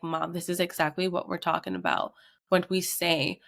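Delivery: cracking, tearful voice; a breaking voice, on the edge of tears. Retold or imitated. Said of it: "you hear his voice cracking".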